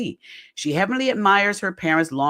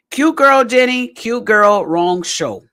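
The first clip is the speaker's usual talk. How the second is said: teasing refrain; 6 semitones higher, 7 dB louder, slower than usual. Pretend. Teasing Jenny with a sing-song refrain.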